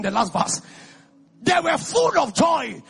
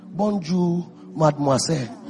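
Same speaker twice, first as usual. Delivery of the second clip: lower, careful attempt at a French greeting; rough French greeting; 8 semitones lower than usual. Shown as a demonstration. Preacher teaching the congregation French, a lower rough French accent. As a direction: say it like a foreigner trying French, lower. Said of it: "pardon the way I said it".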